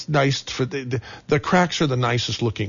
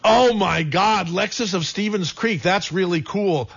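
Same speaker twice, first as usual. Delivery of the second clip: mock excited; 5 semitones higher than usual. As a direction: play up the thrill, hammed. Gushing over the sponsor name.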